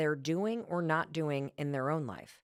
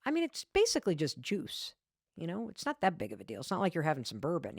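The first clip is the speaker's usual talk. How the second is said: sing-song wheedling, pitched up; tempting her sober husband with wine; faster than usual. Retold or imitated. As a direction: coax him like it's nothing. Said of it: "I'm like".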